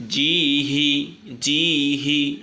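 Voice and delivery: teacher sounding জি হি distinctly; clear ha. Shown as a demonstration. Teacher drilling pupils on joined letters, careful pronunciation. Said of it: "এভাবে উচ্চারিত হবে".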